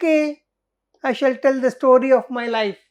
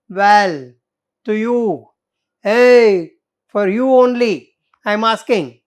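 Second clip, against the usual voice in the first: insistent demand; 6 dB louder than usual. Acted.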